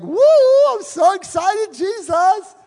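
high, loud hammed-up excitement; mock excited worshipper. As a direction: gush like a showy worship fan. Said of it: "we're like".

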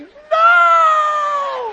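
high, loud mock wail; imitating his girlfriend screaming no. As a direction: ham up a clinging girlfriend's cry.

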